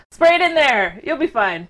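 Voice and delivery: loud, high start to a light presidential impression; Trump. Co-host joking about bad virus advice, light impression. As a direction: lightly mimic a breezy politician giving advice. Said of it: "That's what Trump would say".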